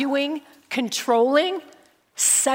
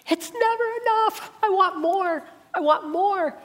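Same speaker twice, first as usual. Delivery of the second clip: craving voice; 8 semitones higher than usual. Pretend. Voicing a greedy, craving heart.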